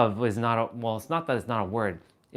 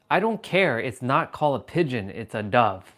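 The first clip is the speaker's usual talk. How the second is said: retold angry retort; 4 dB louder than usual. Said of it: "I got so mad that day".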